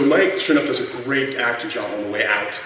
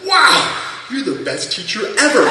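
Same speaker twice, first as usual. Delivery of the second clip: much higher, louder gushing sarcasm; mock praise; 13 semitones higher, 5 dB louder than usual. Mocking the angry ski instructor, high sarcastic gushing. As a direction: gush over him, dripping with irony.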